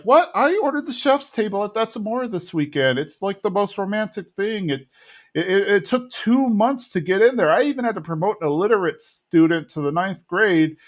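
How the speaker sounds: a hint of a put-out wife bragging about her reservation; imitating Peggy. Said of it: "Peggy's like".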